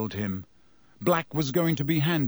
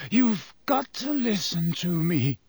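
urgent; 4 semitones higher than usual. A narrator's reading. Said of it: "a note of urgency in his voice".

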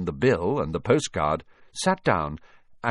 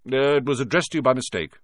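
short; 5 semitones higher, 5 dB louder than usual. A narrator's reading. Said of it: "said Uncle Vernon shortly".

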